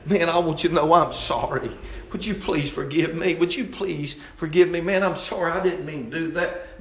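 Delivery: eager, pleading plea for forgiveness; earnest apology. Acted. Acting a repentant man begging forgiveness, earnest. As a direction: apologize as if desperate to put it right. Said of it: "you want that thing right".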